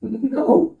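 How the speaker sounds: soft, slow, faltering "St-, uh, no"; trembling voice. Acted. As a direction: let the voice break and falter, slowly. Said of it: "her voice is trembling".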